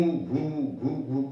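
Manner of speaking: pig grunt imitation. Shown as a demonstration. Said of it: "तो grunt करता है".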